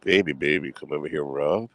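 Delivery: mock come-hither murmur to a lover; night voice. Streamer to his chat, in a mock seductive night voice. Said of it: "you know what my night voice is?".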